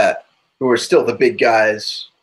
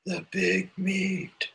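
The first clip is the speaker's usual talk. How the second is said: whisper; 6 semitones higher, 10 dB quieter, much slower than usual. Acted. Echoing friend's whisper.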